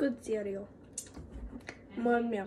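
low, thick, put-on Russian accent.

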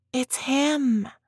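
hissing the words out. A woman sees the instructor stroll into the room and hisses. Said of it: "she hissed".

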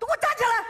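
high-pitched, bossy, commanding tone.

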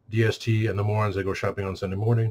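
ordinary talk

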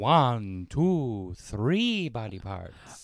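storybook vampire puppet character voice. Reacting to a horrific story, imagining a Count von Count voice. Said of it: "I hear Count Von Count's voice being like".

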